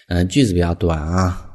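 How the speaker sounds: ordinary talk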